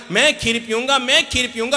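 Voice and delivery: lightly voiced child whining; crying child. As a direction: demand it like a wailing boy. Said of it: "जोर जोर से रोने लगा".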